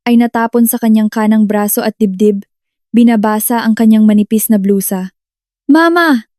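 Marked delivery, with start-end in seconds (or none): 5.7-6.3 high, drawn-out cry. A narrator's reading. Child running to scalded mother, high cry. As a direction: cry out in alarm, pitch leaping up. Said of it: "Sigaw ko".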